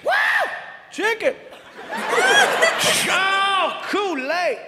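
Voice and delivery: high gleeful whoops; delighted at each gift; excited. Retold or imitated. G unpacking the basket, high gleeful whoops. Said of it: "He's getting excited".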